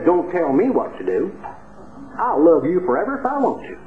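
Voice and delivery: lightly put-on East Texas speech; East Texas accent. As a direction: quote her with a touch of East Texas accent. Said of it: "the way they say it down in East Texas with that accent".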